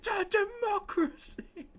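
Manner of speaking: high and slow; Star Wars impression. Streamer doing a high, slow Star Wars quote. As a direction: draw it out mockingly. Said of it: "I'll do the impression for you".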